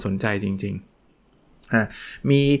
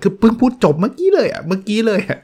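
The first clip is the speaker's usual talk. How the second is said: much higher, incredulous protest; exasperated disbelief; 10 semitones higher, 3 dB louder than usual. Acted. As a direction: squeal in mock disbelief at the question. Teacher's disbelief at repeated question.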